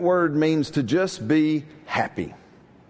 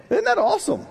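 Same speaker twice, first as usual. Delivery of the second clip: excited; faster than usual. Real, not acted. Preacher rallies congregation.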